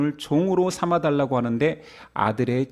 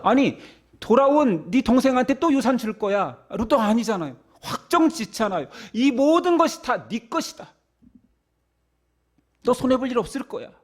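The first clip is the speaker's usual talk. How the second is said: pleading father; 7 semitones higher than usual. Acted. Preacher voicing reassuring father.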